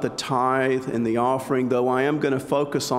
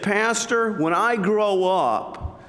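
put-on little boy voice; 4 semitones higher than usual. Little boy speaks to pastor.

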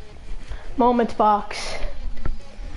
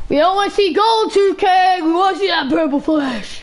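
excited; 4 semitones higher than usual. Real, not acted. Hyping a pack pull on stream.

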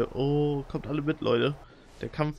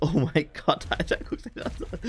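laughing. Real, not acted. Laughing at the game.

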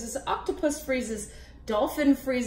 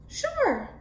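character voice; 12 semitones higher than usual. Acted. Crab answers high.

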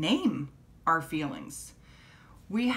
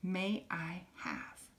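"May I have" softer and slow; a quiet, polite "May I have"; soft model question; 6 dB quieter, slower than usual. Shown as a demonstration. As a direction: ask gently and slowly. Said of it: "the last one is".

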